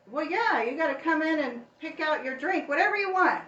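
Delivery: loud high laughing shout; nervous laughter breaking into a shout. Real, not acted. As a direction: laugh out the words.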